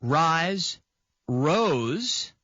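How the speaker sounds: Rise, rose read slowly as separate forms; teacher reading the forms aloud; conjugation drill. Shown as a demonstration. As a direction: set out each verb form clearly. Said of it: "it is conjugated as follows".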